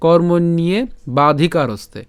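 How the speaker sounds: কর্মণ্যে বাধিকারস্তে with "niye" and joined "ste"; model pronunciation. Shown as a demonstration. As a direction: demonstrate কর্মণ্যে বাধিকারস্তে syllable by syllable. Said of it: "তাহলে উচ্চারণটা কেমন?". (কর্মণ্যে বাধিকারস্তে স্পষ্ট সংস্কৃত উচ্চারণে)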